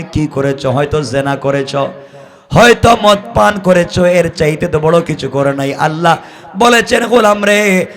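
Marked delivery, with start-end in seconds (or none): none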